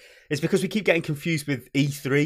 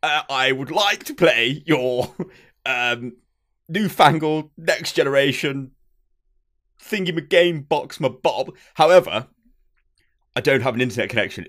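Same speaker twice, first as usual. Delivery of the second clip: lightly hammed-up ye olde English accent; deliberate, mannered Victorian English customer; Victorian English gentleman. Customer asking about a newfangled game box, Victorian English gentleman. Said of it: "a ye olde English Victorian-y style".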